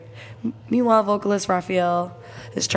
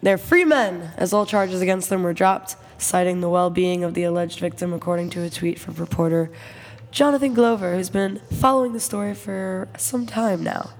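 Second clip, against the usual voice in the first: reporter voice. Acted. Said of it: "That's your reporter voice".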